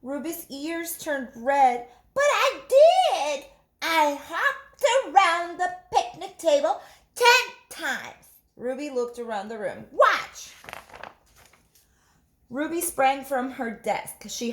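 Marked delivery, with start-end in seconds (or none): 2.1-8.2 much higher, louder laughing insistence; insistent child. Acted. Ruby insisting to the giggling class, high and laughing. 9.9-10.5 much higher louder call; eager child. Acted. Ruby showing the class, high eager call.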